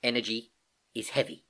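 put-on young niece echoing haltingly, with a pause; puzzled. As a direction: repeat it as if unsure it makes sense. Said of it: "said Gedankin, looking puzzled".

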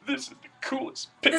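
high, thrilled exclamation; excited. Retold or imitated. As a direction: gush over the drawing. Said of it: "you're like".

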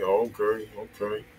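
ordinary talk, nothing marked

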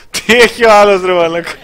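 surprised outburst. Real, not acted. Gamer reacting to a teammate mid-match, startled loud yell. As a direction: blurt it out in disbelief. Teammate's odd in-game move.

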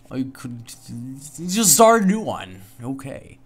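slow whisper to yourself; whispered aside. Real, not acted. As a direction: hush it like a secret, slowly. Aside to self at new game.

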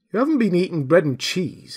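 high, excited rustic exclaiming; Marvel's astonished voice. A narrator's reading. Tramp Marvel marvels at the invisible man's voice, astonished. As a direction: gasp it out in wonder.

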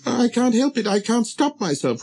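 high, apologetic small voice; embarrassed little prince. Acted. Prince excusing his yawn to the king, high and embarrassed. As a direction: plead helplessly in a light, high voice. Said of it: "thoroughly embarrassed".

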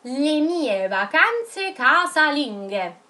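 put-on slowly, word by word, for children to write; slow dictation. Shown as a demonstration. Teacher dictating the title to her pupils, very slowly. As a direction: stretch each word so the class can copy it. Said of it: "mi vado a scrivere".

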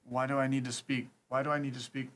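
put-on, half-Indian half-English accent; attempted Indian accent. Prank caller refusing to switch language, put-on Indian accent. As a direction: keep up a faked Indian accent. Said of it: "try to do my best Indian accent".

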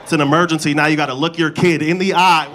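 ordinary delivery

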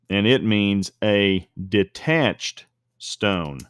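"detached" slowed and leaned on; slow down and press the word "detached"; stress on detached. Shown as a demonstration. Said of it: "Emphasis on the word detached".

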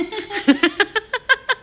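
high giggling burst of laughter; bright laugh. Real, not acted. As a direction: laugh out at her own joke. Joking about marrying stylist.

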